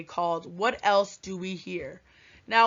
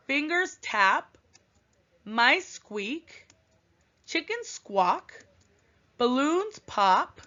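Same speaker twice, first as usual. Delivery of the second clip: poem reading. Shown as a demonstration. Reads poem aloud to class.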